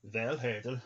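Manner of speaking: Valhertl with a TL ending, like "val-hert-l"; Norse pronunciation. Shown as a demonstration. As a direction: say Valhertl slowly, ending on a tl click. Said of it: "it's pronounced like a T L".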